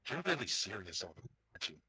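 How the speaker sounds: ordinary talk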